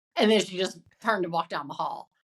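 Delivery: ordinary delivery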